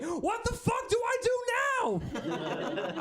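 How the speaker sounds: high squeaky helpless voice; clueless Megan. Pretend. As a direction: play her totally lost. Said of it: "be like".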